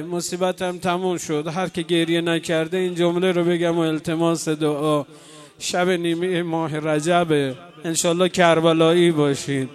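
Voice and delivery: full-voiced sermon plea; fervent preaching. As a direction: urge the crowd to pray through their tears. Preacher exhorts mourners to pray.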